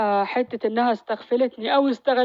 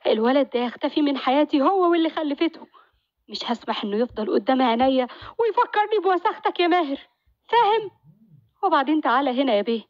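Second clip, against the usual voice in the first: sharp, higher scolding wife; jealous wife Sumaya; 3 semitones higher than usual. Acted. Wife scolding Maher over his son, in a raised scornful voice. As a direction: spit out each accusation at the husband.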